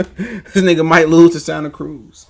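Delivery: slow, laughing scoff. Real, not acted. Mocking Tank's chances, laughing at the idea. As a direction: laugh through the put-down.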